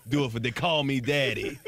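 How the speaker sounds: mock bedroom talk through laughter; mimicking Steve. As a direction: drag it out, half laughing. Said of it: "all you hear is Steve's voice, like".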